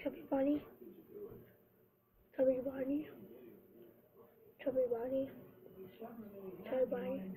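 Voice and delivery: words mashed by a full mouth; cheeks stuffed full. Real, not acted. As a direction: say it with cheeks packed.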